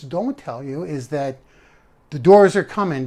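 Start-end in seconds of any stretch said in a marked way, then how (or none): 2.1-3.1 hyped up. Real, not acted. Hyped line then repeated.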